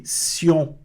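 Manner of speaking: "sion" with an s sound and nasal ending. Shown as a demonstration. Teacher isolates the French ending, "sion" said with s. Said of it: "O T com som de C".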